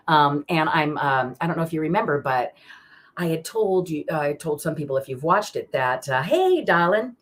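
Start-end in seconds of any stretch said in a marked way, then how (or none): 6.2-7.2 warm greeting. Real, not acted. Greeting someone arriving on stream.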